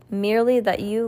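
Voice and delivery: ordinary delivery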